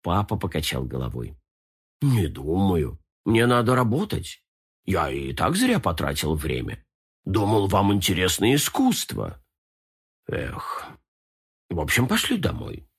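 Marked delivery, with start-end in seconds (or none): 2.0-12.9 disappointed. Acted. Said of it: "очень расстроился".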